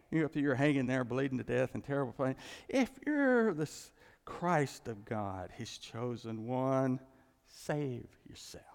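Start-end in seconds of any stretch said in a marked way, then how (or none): 2.7-8.6 slow, drawn-out sneering challenge; mocking taunt. Preacher voicing mockers taunting the dying Jesus, slow sneer. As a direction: taunt him, dragging each word.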